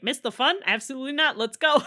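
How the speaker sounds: mock-eager, brushing off the idea of staying; imitating Dorian keen for the fight. Dorian quoted, eager to join.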